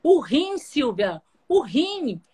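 overwhelmed dad blurting the news; imitating a frantic father. Father retold yelling the news.

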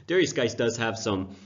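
rough, scratchy sore-throat voice; hoarse voice. Real, not acted. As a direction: talk through a raw hoarse throat. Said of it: "Got a very rough throat right now".

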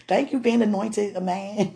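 laughing through the words; giggling thanks. Real, not acted. To wife, laughing botched thanks. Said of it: "I say it right".

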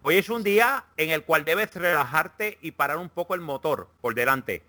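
light mock Castilian Spanish accent for a horoscope read; reading Leo's horoscope to friends in a hammed-up Spanish accent. Mock Spanish accent, Castilian lisp. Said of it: "el de Leo en el acento español".

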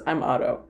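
OTTO said low-key, like "ah-doe"; correct name pronunciation. Retold or imitated. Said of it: "he says".

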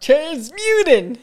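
stretched slow and loud; drawn-out playful. Pretend. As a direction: savor it slowly.

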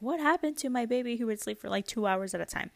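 mock bewilderment at the lost long naps; mildly bewildered. Parent asking what happened to her sleepy baby, mildly bewildered.

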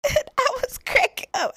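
talking through a laugh. Real, not acted. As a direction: giggle through the words. Laughing while telling mom story.

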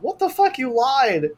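high, incredulous outraged cry; mock outrage. The players shout at the liar, outraged and high. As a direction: accuse her, shocked. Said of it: "they're like".

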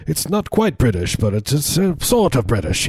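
high, not-quite-British New England accent; swooping, sort-of-British twenties New England accent. Shown as a demonstration. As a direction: put on an old-film New England accent. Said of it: "the New England accent in the twenties".

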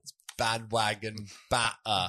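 mock English accent. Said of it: "give me your best English accent for bandwagon banter".

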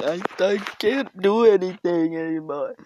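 put-on soft voice. Real, not acted. Podcaster showing listeners the voice they get, high soft voice. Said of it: "I get this soft voice".

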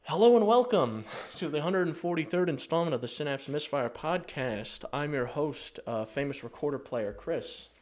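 upbeat announcer welcome; podcast host intro. Acted. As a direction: open the show like a radio host.

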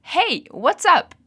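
slow, clear model phrase for repeating; fala lenta de modelo. Shown as a demonstration. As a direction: say it slowly so the class can copy. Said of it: "So, repeat after me". (frase modelo bem devagar para repetir)

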